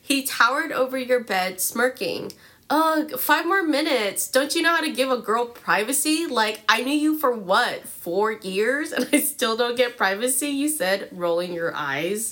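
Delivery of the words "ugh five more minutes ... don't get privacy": put-on bubbly sorority girl. Teen girl voiced in fanfic.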